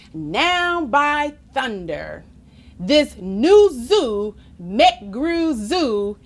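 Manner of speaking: slow, drawn-out exclamation of wonder; a touch of showy awe; mild storybook amazement. Acted. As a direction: proclaim it slowly, stretching the big words. Voices amazed crowd in story.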